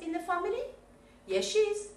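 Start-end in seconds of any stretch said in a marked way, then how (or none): 1.3-1.9 Yes, she is, pitched high and bright; teacher showing the positive reply; bright model answer. Shown as a demonstration. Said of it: "modelling answers".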